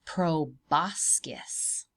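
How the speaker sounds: Proboscis very slow, each syllable clear; repeated for learning. Shown as a demonstration. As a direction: say Proboscis slowly so a child can copy it. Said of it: "a proboscis. Proboscis".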